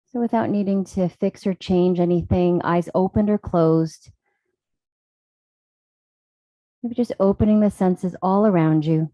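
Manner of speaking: calm, even voice with long pauses; guided meditation. Real, not acted. Yoga teacher settling the class into stillness, calm guided meditation. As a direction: ease them into stillness, leaving space between phrases.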